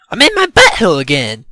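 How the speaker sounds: loud, high yell of dismay; dismayed outcry. A narrator's reading. Character's dismayed outcry in cavern.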